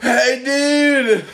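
high, loud street call. Retold or imitated. Friend retells Kobe shouting to a dad across the street, loud laughing call-out. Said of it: "Kobe's like".

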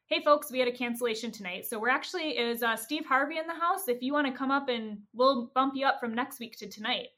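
quick, upbeat mic announcement; club announcer. Retold or imitated. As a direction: address the room like a club host. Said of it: "over the mic, the announcer comes on".

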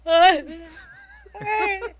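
high-pitched gasped "ai"; short, high, overwhelmed yelps; trembling fan squeal. Retold or imitated. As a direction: squeal as if shaking with nerves. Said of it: "eu já fui assim, ó".

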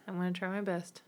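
hushed, held-back voice; quiet. Real, not acted. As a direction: soften it for a sick friend. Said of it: "I don't know how well I can even whisper".

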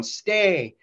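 yelled command. Retold or imitated. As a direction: order him down again, firmly. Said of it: "yelling at him".

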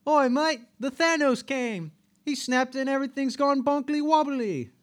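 very high, squawky British caricature; mock British accent. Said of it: "do it with a British accent".

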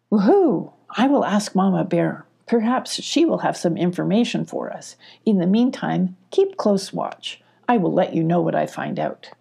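hoot, then reassure them; hooting Mama Owl. Acted. Mama Owl setting off to ask Mama Bear.

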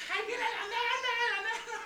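high, slow cry, laughing through it; high frantic cry. Retold or imitated. Kid yells the teacher is coming, high laughing cry. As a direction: wail the warning while laughing. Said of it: "gritando con unos huevotes".

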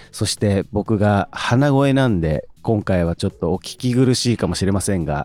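stuffy nose from hay fever; congested, blocked-nose voice; nasal voice. Real, not acted.

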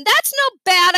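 high, urgent correction; yelling. A narrator's reading. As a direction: yell it over the commotion. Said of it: "I yelled".

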